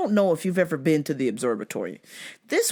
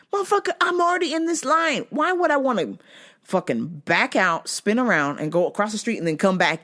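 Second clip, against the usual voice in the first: indignant rant; 4 semitones higher than usual. Retold or imitated. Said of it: "And I'm like".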